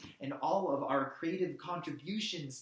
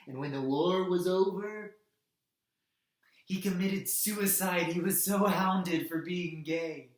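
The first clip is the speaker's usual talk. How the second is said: louder, raised-pitch bitter indignation; outraged; 3 semitones higher, 6 dB louder than usual. Acted. Activist telling how Turing was hounded to suicide, outraged. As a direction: let the injustice swell in the voice.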